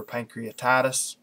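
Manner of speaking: "pancreatitis" with the T sounded, ending TIE-tis; one pronunciation. Shown as a demonstration. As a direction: say "pancreatitis" with its full "-titis" ending. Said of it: "people say it both ways".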